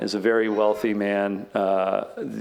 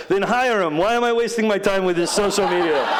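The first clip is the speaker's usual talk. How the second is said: impatient; 10 semitones higher than usual. Retold or imitated. Billionaire dismisses the meeting.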